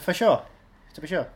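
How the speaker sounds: mock Irish accent. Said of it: "when I get into Ireland".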